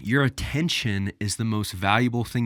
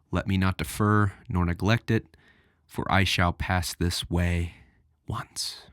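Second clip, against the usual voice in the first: solemn quote reading. Acted. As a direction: read it with weight, letting the last word fade to a whisper. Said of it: "But let's read this quote".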